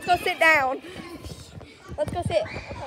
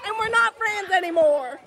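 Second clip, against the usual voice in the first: dramatic shout; 8 semitones higher than usual. Pretend. Mock-dramatic rant about friend.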